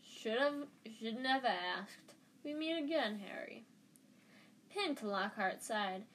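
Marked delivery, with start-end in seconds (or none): 0.0-3.6 lightly boomed hearty greeting, pitched up; self-pleased, sing-song heartiness; jovial Lockhart. Acted. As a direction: greet with showy good cheer. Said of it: "thundered jovially".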